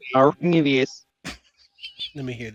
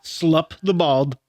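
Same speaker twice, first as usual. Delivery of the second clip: backwards speech; much slower than usual. Shown as a demonstration. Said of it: "try to say it backwards".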